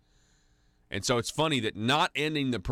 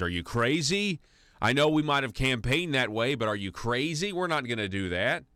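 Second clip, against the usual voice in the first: mock incredulity; 3 semitones higher than usual. Mimicking politicians' incredulous private reply.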